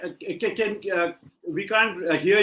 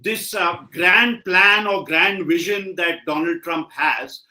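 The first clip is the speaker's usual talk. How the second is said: slightly raised voice to be heard; speaking up; 3 dB louder, slower than usual. Real, not acted. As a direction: repeat it a bit louder for a listener who can't hear. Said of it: "can you speak a bit loudly".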